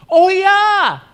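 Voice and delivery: oh ya, like he suddenly remembers; surprised recognition. Retold or imitated. Pastor answering the couple's phone call, surprised and bright.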